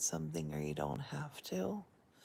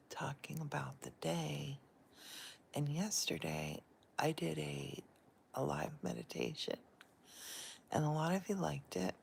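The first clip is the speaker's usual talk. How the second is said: whispering. Real, not acted. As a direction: keep it a hushed bedside whisper. Whispers all through, in bed.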